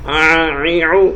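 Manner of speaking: ا عی عو stretched slowly with the throat squeezed; throaty ain. Shown as a demonstration. Teacher repeating the ain vowels slowly. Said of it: "عین کی آواز آنی چاہیے".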